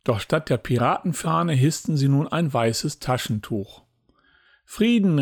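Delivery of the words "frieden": a high hailing call of Frieden; calling out peace. A narrator's reading. Captain Pete hails the robbed ship under a white flag, high call. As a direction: hail the other ship across the water. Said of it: "rief Captain Pete".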